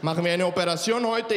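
put-on lightly accented Latino surgeon's question; a hint of Latino lilt, at normal speed; serious Latino doctor. Latino doctor asking about today's operation, light Latino accent. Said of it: "der ernsteste Latino auf der Welt".

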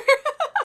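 loud, high cackle; hearty laugh at your own joke. Real, not acted. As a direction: burst into high-pitched laughter.

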